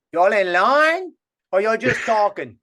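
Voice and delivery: slow, drawn-out Cajun lady's question; old lady's drawl. Retold or imitated. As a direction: stretch it out like an elderly bayou woman. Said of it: "she says".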